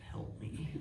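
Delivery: tiny, soft mock plea for help; pathetic high-pitched voice. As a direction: squeak it out weakly, imitating a helpless victim. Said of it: "in a very pathetic, high-pitched voice".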